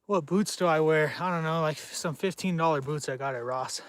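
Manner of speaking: breathless, talking between breaths; winded from walking, catching air. Real, not acted. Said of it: "Now I'm gonna be out of breath".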